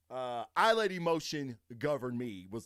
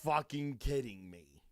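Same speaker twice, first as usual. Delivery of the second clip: louder, slow, incredulous; disbelieving outburst; 7 dB louder than usual. Retold or imitated. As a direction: blurt it out in disbelief. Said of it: "I was just like".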